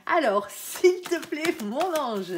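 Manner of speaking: s'il te plaît pushed high and loud; insistent plea. Real, not acted. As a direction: call out to the angel, drawing it out. Asking her angel again, insistently.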